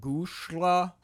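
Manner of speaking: choppy gibberish Russian, word by word; staccato. Retold or imitated. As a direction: spit out fake Russian in chunks. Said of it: "like, one word at a time with".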